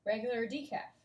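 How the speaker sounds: "Regular or" merged, OR nearly swallowed; natural connected speech. Shown as a demonstration. Teacher reading the cafe question, relaxed linked words. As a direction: run "Regular or" together. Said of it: "what it really sounds like".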